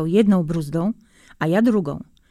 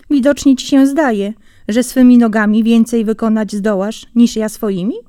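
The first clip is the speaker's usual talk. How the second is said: offended retort; 2 semitones higher, 6 dB louder than usual. Acted. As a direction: bristle at the insult. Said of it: "Słowa te uraziły Jeża niesłychanie". (urażony Jeż odpowiada zającowi głośniej)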